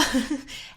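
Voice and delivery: short soft chuckle; brief amused laugh at yourself; little real giggle. Real, not acted. Laughs at own bubble line.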